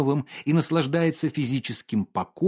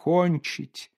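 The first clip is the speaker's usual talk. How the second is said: mocking echo; 5 semitones higher than usual. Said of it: "поморщился художник".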